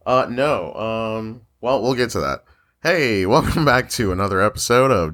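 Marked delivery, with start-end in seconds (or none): 2.8-5.1 podcast host voice. Real, not acted. Host opening a show for listeners, in podcast voice. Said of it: "get my podcast voice on".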